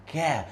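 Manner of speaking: 'Ka' with a smile, light. Shown as a demonstration. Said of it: "I'm showing you a little smile".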